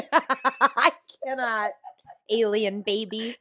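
slow words through laughter; laughing. Real, not acted. Laughing at Sim babble.

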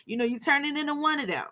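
lightly acted furious wife; angry wife. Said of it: "She like".

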